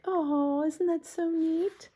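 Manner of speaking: lightly voiced cheerful Piggy. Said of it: "Piggy's all like".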